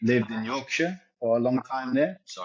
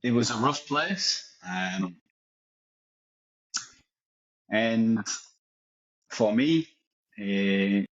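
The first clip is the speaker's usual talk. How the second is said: put-on mix of Leeds and French accents; much slower than usual. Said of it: "switching backwards and forwards between the accents".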